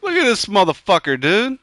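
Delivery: high, loud disbelief; can't believe what he's found; incredulous. Real, not acted. Reacting to a hut he finds in the game, high incredulous.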